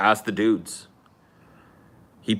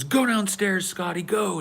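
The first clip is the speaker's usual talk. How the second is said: mom ordering; 9 semitones higher than usual. Retold or imitated. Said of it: "she goes".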